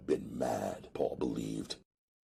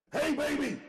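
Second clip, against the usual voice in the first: yelled. Acted. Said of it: "I yelled".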